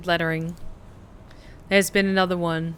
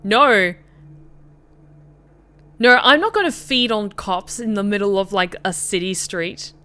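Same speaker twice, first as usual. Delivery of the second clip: real, much louder exclamation of no; loud refusal; 7 dB louder than usual. Real, not acted. Streamer to chat refusing to feed on cops, loud. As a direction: shout it down flat out.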